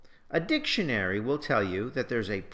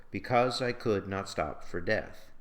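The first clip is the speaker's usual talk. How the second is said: even beat on beCAUSE, COULD, STOP, DEATH; measured verse line, weight on "could", "stop", "death"; every other syllable stressed; 2 semitones lower than usual. Shown as a demonstration. Teacher reads the last example, stressing "could", "stop", "death" evenly. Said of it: "the stress comes at every other syllable".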